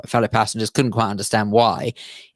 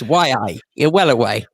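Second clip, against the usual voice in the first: Geordie accent. Shown as a demonstration. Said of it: "the phrase to show you're a Geordie".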